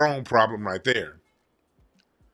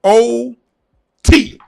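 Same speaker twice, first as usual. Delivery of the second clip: high, raspy clueless speller; mock D L Hughley; 8 semitones higher, 8 dB louder, much slower than usual. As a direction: play a fool spelling it wrong, much higher. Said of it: "D L Hughley voice".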